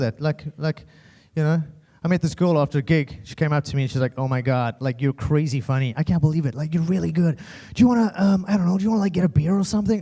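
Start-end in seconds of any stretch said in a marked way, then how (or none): 4.2-10.0 imitating a girl's put-on American accent; gushing fan with a fake American accent. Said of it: "what's up with fake accents?".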